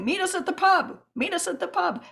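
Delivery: high-pitched, eager summons; rally your buddies down to the pub; imitating an excited phone round-up; excited rallying call. Phoning round to rally club buddies.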